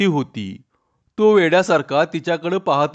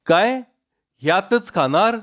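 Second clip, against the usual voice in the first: put-on surprised young wife; 5 semitones higher than usual. Chanda surprised at Tanya.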